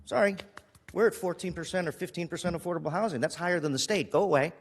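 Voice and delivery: acting out a brush-off, pitched a little up; mock dismissal. Councilor imagines turning away a woman in need, mock dismissive. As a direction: play a complacent refusal, mockingly. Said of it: "can I sit back and tell her".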